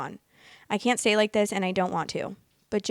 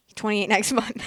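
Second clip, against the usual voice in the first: laughing; 2 semitones higher than usual. Real, not acted. About the ex-classmate's age, breaking into a laugh. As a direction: laugh breaks in before "month".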